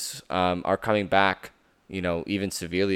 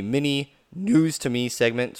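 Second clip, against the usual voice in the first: voice cracking; 6 semitones higher than usual. Real, not acted. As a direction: voice cracks mid-sentence. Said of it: "Sorry for the voice crack".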